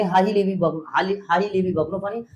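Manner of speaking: quick rattled-off recitation. Shown as a demonstration. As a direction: rattle it off fast. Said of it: "फिर और speed बढ़ा देंगे".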